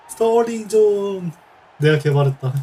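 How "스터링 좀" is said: laughing plea. Real, not acted. Laughing fit, pleading.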